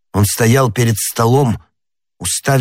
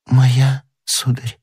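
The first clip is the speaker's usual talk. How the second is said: faint, pitched-up, failing; dying voice; 4 semitones higher, much slower than usual. Acted. Poisoned young woman answers Athos, dying voice. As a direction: answer weakly, fading away. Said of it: "умирающим голосом".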